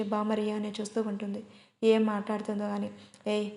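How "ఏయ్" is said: careless, offhand demand for a name; offhand, dismissive ask. A narrator's reading. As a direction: toss the question off like she can't be bothered. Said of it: "అని నెగ్లెక్ట్గా అడుగుతుంది రియా".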